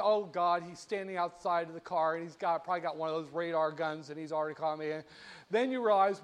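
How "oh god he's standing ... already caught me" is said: softer, sinking mock dread; dismayed muttering to oneself. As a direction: mutter it like a caught speeder. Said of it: "and you say".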